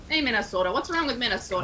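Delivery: put-on playful Minnesota accent; mock-indignant Minnesotan accent. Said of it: "do the Minnesota accent".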